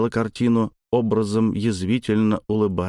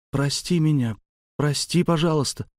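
pleading apology; 6 semitones higher than usual. Acted. Girl begs forgiveness.

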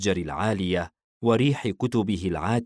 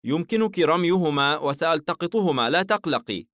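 reassuring; 9 semitones higher, 3 dB louder than usual. Acted. حاييم يطمئن الفتاة.

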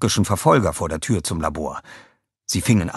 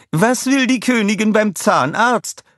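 high, slow queenly voice; old queen telling a joke; 14 semitones higher, 5 dB louder than usual. A narrator's reading. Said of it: "fragte die Frau". (hohe, langsame Königinnenstimme)

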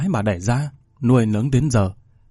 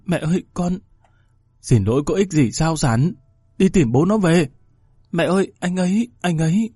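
lightly voiced young woman begging, slightly higher; pleading daughter; 5 semitones higher than usual. Daughter pleading with her furious mother, anxious.

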